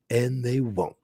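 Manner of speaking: gruff Western lawman, lightly voiced; a hint of a stern sheriff. Reacting to a show, voicing the sheriff lightly. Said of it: "That's my sheriff voice".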